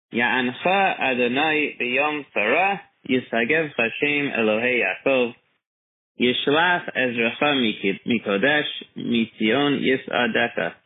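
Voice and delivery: slow, carefully enunciated prayer recitation; slowly. Shown as a demonstration. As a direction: say each word slowly and clearly. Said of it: "I will say it slowly".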